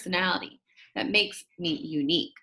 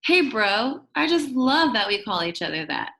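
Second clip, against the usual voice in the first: excited; 3 dB louder than usual. Acted. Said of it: "with a look of almost equal excitement".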